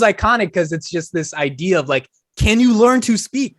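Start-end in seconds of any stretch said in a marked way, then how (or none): 2.4-3.6 slow, high, loud quoted challenge; imitated exasperation, slow and emphatic; mock exasperated demand. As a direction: draw the question out loudly, pitched up. Repeats iconic question, drawn out.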